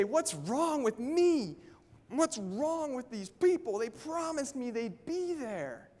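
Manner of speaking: high, slow exasperated complaint; retold frustration. Speaker recalling empty meetings in Chicago, exasperated. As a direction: replay his old frustration, drawn out. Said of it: "I'd get so frustrated and say".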